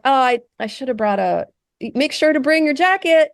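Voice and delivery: high cheery helper voice; chirpy AI voice. Retold or imitated. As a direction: sweetly remind them like an eager assistant. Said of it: "And it's like".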